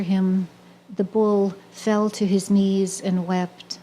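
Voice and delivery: slow, measured poem recital; poetry reading. Acted. Sharing a poem about a bull facing slaughter, slow measured recital. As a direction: read each phrase slowly, letting pauses settle. Reads her own poem.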